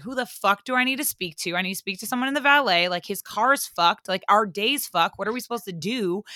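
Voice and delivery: fast, indignant complaint; angry hotel guest demanding the valet; mock rant. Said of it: "I was, like, going off basically".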